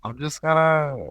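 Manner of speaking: slow mock Toronto accent; hammy Canadian accent impression. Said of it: "Toronto accent".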